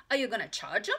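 put-on loud child question; curious little girl. A narrator's reading. Ramona asks about paying for books, loud and childlike. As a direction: ask bluntly like a small child. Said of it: "Ramona asked".

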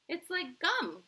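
high, loud excited cry; Violet Beauregarde. A narrator's reading. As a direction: pipe up loudly, pitched well up. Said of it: "cried Violet Beauregarde".

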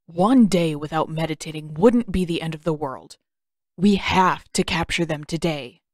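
a lightly voiced restless prince, pushing back; impatient young prince.

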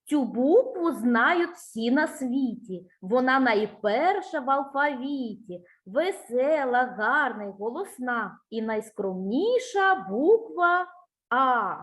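teacher's deliberate rhyme reading; children's rhyme recital. Shown as a demonstration. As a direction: recite the little poem line by line, unhurried. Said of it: "послухай віршик".

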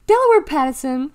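high, loud reprimanding yell. A narrator's reading. Mother stops Deli at the door, yelling. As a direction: yell the full name to stop her. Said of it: "Clarice yelled".

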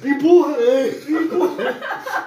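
calling out, pushing him on; loud urgent laughing shouts; shouting encouragement. Real, not acted. Coaching friend during challenge. (gritando pra ele empurrar)

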